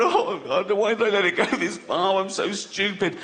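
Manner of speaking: lightly acted tearful self-reproach; mock crying regret. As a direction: imitate a patient lamenting their own mistake. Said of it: "they're crying and I'm crying".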